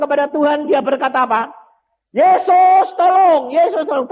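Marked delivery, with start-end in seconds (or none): 2.1-4.1 crying out. Acted. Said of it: "teriak-teriak".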